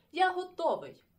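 loud, high eager call; exclaiming. Acted. Boy announcing he is ready, loud exclaim. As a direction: announce it with a shout. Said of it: "він вигукнув".

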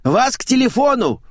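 high loud call; shouted summons. Acted. Maid shouting through the bathroom door, loud call. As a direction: yell it from the corridor. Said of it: "заорала из коридора домработница Ленка".

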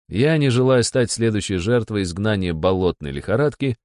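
ordinary delivery, nothing marked

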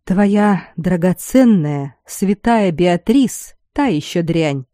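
slow, bitter savoring; drawn out with painful pleasure; tormented relish. Acted. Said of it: "с мучительным почти наслаждением".

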